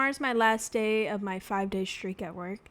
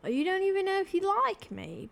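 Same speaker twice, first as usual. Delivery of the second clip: excited; 9 semitones higher, 6 dB louder than usual. Real, not acted. Gushing thanks to viewer.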